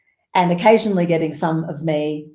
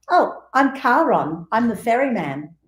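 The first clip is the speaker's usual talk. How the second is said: put-on matter-of-fact old man; 5 semitones higher than usual. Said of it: "He just says straight up".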